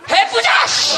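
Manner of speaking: high, loud burst of resolve; mock shout of determination; fired-up shout. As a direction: yell it like you've finally made up your mind. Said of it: "마음만 딱 서면".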